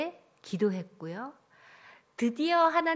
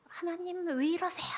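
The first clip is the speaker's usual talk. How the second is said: higher-pitched mock grumbling plea; put-on resentful whine, pitched up; retold complaint to God; 7 semitones higher than usual. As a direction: complain to God in an imitated protest. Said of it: "원망하고 불평하고".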